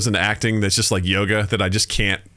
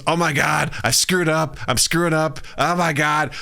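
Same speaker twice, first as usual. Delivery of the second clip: higher-pitched mock self-reproach; quick run of higher, dismayed exclamations; retold dismay; 6 semitones higher than usual. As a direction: retell an actor's panicked realization. Retold actor realizing his mistake.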